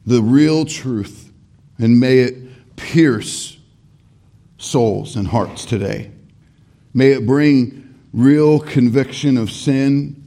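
prayer voice with a slowed, stretched middle; pastoral prayer. Acted. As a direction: pray earnestly for the congregation. Leads the closing prayer.

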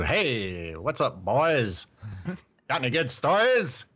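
lightly voiced old-time newsman; a hint of a fast-talking reporter; 1920s journalist voice. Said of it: "I could talk like a nineteen twenties journalist too".

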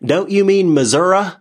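high Southern twang on "Missouri", final vowel turned to "uh"; mock Southern accent. Outsider correcting a Missourian, mock Southern accent. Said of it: "like, this super Southern country or super Southern state".

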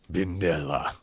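contained, understated fury; furious. A narrator's reading. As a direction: say the name with held-in anger. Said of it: "he said furiously".

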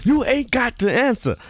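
squeaky high mock diva; high put-on voice. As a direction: brag it in a high voice. Same quote, high put-on voice.

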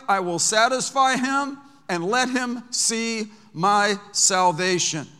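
preaching at full force. Acted. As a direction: proclaim the promise, stretching long.

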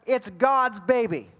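a hint of a slow, solemn angel voice; lightly voiced heavenly messenger, drawn out; angel's announcement. Preacher voicing the angel to Joseph, slow and solemn. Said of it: "The angel says".

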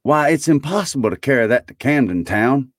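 put-on high, eager old Scrooge; excited Scrooge. A narrator's reading. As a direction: exclaim in a high, delighted character voice.

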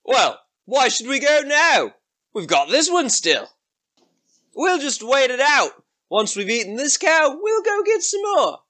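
high, swooping ogre voice; put-on ogre voice, unhurried argument; ogre's friend. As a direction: reason it out as a second dim ogre. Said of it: "And his friend's like".

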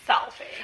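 "Selfie" pronounced in imitation of her; imitated pronunciation. Host repeats the way she says the title, imitated pronunciation. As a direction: mimic her saying "Selfie". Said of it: "The way she says it".

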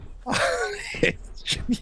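high, wheezy, soundless laugh; airy high-pitched laughing fit; disbelieving laugh. Real, not acted. Disbelief at hearing the pronunciation.

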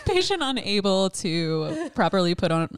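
mock occupational therapist charting; clinical report voice. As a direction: dictate it like a chart note. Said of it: "Patient is".

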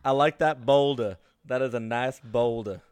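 understated movie-donkey impression; Donkey from Shrek. Friend repeats his message for the group, lightly as Donkey. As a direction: quote it lightly in the cartoon donkey's accent. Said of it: "That's how Donkey says it in Shrek".

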